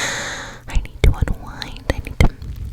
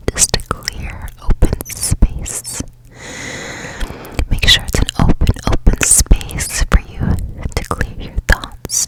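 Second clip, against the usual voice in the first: guided meditation. Acted. Host guiding listeners to clear their thoughts, whispered guided meditation. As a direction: whisper them gently into a clear mind.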